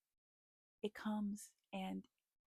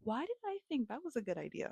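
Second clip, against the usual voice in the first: mock panicked thoughts. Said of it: "I'm thinking".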